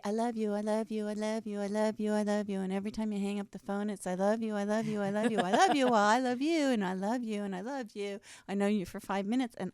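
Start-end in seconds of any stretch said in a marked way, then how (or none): 0.1-2.6 needy gushing. Retold or imitated. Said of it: "this little needy". 4.1-8.2 needy gushing. Retold or imitated. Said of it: "when people say".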